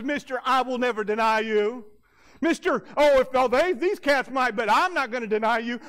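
high, loud protesting Peter; boastful Peter. Acted. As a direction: brag it like a cocky street guy. Preacher voicing boastful Peter.

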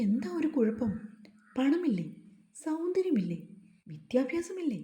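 indignant rant. Acted. Don complains to Mary about Malu rejecting him, indignant. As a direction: list your virtues like an insulted suitor. Don's wounded-pride rant.

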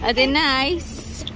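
high sing-song voice for a little one; baby talk, lifted and playful; talking to a toddler. Acted. Mum chatting to her toddler.

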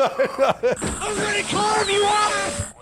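high, slow hammed-up shouting brute; villain voice. Player voicing the game character, high and slow. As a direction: bellow it like a cartoon madman.

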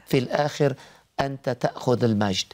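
earnest spoken prayer; praying aloud. Acted. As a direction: pray it from the heart. Leads prayer for caller.

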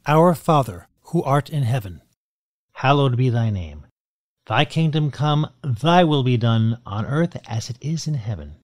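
steady, devout recitation of the prayer. Acted. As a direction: pray it evenly, as at Mass. Recites Our Father.

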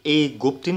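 إيجوبتن, first vowel "eh", never "ah"; a-umlaut as e. Shown as a demonstration. Teacher pointing out the umlaut, long "eh" opening إيجوبتن. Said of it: "ما قلتش آ".

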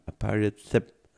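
tongue held between fingers; holding tongue. Shown as a demonstration. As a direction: say it while holding your tongue. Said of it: "Don't say that while holding your tongue".

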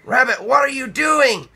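high, pleading Mouse voice; exasperated Mouse. Acted. Mouse crying out to Rabbit, high and exasperated. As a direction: Mouse at wit's end.

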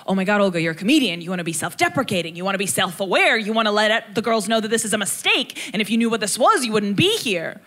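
inner voice. Retold or imitated. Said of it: "the first voice is obviously like".

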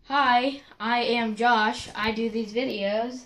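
slow, spelled-out delivery; slow translation. Shown as a demonstration. Contestant translates the gibberish for viewers, slow and deliberate. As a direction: say it slowly, word by word. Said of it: "If you didn't understand what I said".

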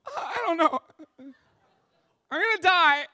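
high-pitched comic wail of terror; mock panic. Driver facing a cop's gun, mock panic.

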